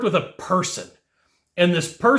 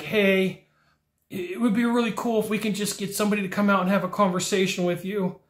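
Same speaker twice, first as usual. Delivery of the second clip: rushed request; 3 semitones higher, 4 dB quieter than usual. Retold or imitated. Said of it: "say something along the lines of".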